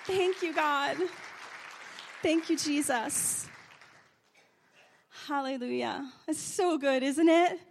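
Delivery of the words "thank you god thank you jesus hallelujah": loud, high praise cry; exultant hallelujah; shouted hallelujah. Real, not acted. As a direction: lift the room in praise. Praise shout after testimony.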